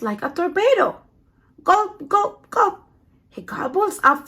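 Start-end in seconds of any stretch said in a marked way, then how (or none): 1.6-2.8 high, cartoonish gulps; playful gulping sound. A narrator's reading. Narrating the hungry penguin eating, high comic gulps. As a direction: make each gulp a funny swallow. Sound effect in read-aloud.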